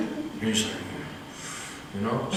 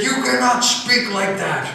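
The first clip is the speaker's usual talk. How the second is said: retold scream; 8 semitones higher than usual. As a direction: shout it down like an angry elder. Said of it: "scream out".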